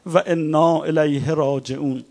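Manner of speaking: very loud and slow lament. Retold or imitated. The imam raising his voice after hearing the insult, loud and slow. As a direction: stretch each word out, crying it aloud. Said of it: "صدا رو بلند کرد".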